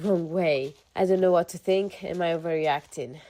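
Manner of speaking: even-paced reading of a personal post; measured first-person narration; story read-aloud. Acted. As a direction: read it out like someone's confession. Reads a posted story aloud.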